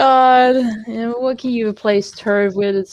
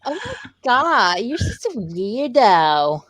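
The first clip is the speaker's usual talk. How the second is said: put-on Valley Girl. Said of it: "Valley Girl insults".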